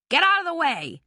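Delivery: angry loud yell. A narrator's reading. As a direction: order him aside. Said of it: "Bannister yelled".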